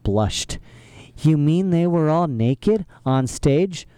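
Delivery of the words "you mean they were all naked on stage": shocked. A narrator's reading. Violet blushed, shocked question.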